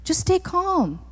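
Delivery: soft, lightly acted reassurance; calming. Moses to the people following him, softly calming. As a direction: gently settle the crowd. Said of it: "He was trying to keep the people calm".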